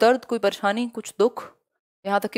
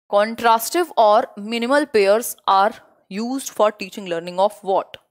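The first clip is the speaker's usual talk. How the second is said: very slow, spaced out quiz question; slow question reading; 2 semitones lower, much slower than usual. Shown as a demonstration. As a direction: read the question slowly for the class. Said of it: "teacher reads quiz question". (Class को धीरे-धीरे सवाल पढ़कर सुनाना)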